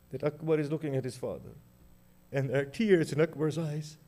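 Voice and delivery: hushed lament. Acted. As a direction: sink into a hushed, tearful telling. Hushed grieving narration.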